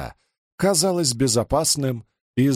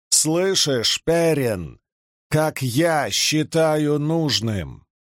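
higher, slow, with Я drawn out; insistent exclamation; 4 semitones higher, much slower than usual. A narrator's reading. Rand repeats his decree to Perin, insistent, leaning on "я". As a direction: press hard on "я", stretching the words. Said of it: "воскликнул Ранд".

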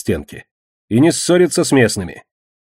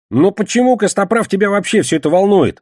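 high, loud, agitated question; exasperated exclamation; 10 semitones higher, 5 dB louder than usual. A narrator's reading. Кегля challenges Костоправ about why he cares, exclaiming. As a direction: cry out in exasperation. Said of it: "воскликнул Кегля".

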